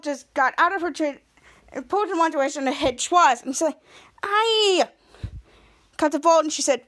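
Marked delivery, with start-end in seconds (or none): 4.2-4.9 high-pitched imitated cry; hammed-up yelp, pitched up; mock yelp. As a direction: let out a put-on "Aye". Imitates a character being hit.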